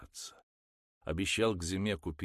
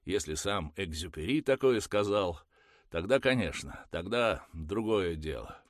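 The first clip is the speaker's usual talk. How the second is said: louder, taunting and sarcastic; mocking sarcasm; 3 semitones higher, 6 dB louder than usual. A narrator's reading. Offended husband mocking his wife's quote, loud and sarcastic. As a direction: jeer at her quote, hurt. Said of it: "обиделся Куницкий и заёрничал".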